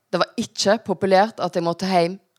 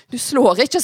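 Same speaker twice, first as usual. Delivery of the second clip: higher-pitched urgent command; tense protest with raised pitch; alarmed warning; 6 semitones higher, 4 dB louder than usual. Acted. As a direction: warn off an attacker. Mother shields herself from a blow.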